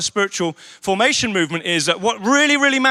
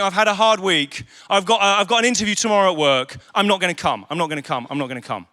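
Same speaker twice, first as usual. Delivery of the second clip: excuse-making members; 4 semitones lower, faster than usual. Retold or imitated. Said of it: "people saying".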